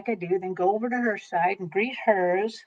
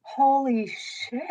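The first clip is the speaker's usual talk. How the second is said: awestruck; 3 semitones higher, slower than usual. Retold or imitated. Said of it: "I'm just like".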